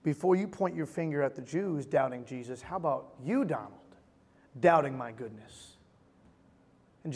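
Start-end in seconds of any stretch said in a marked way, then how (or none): 0.0-5.8 God's gentle rebuke. Retold or imitated. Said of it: "God convicts my heart ... saying".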